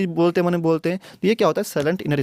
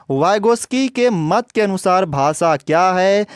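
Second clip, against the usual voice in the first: slow, louder question reading; emphatic question read; 4 semitones higher, 4 dB louder, slower than usual. Shown as a demonstration. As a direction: read the question out loud and slowly. Reading exam question aloud.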